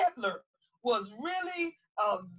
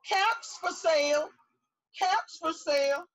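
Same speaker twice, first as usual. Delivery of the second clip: peddler calling; 4 semitones higher than usual. Acted. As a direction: cry out caps for sale like a hawker. Peddler calls out his wares.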